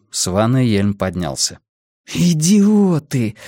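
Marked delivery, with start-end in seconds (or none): 2.1-3.4 high, drawn-out cry of contempt; seething, slow and raised in pitch; angry hiss. A narrator's reading. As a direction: stretch the word out in high-pitched fury. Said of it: "зашипела Сага и пнула мусорную корзину".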